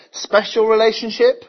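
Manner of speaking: loud, high scornful "Really?"; sarcastic mockery. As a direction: scoff at the claim, jeering. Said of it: "See the mockery".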